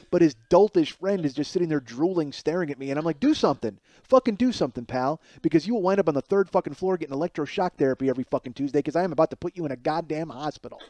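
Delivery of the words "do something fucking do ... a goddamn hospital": furious. Retold or imitated. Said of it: "I am fucking furious at this guy".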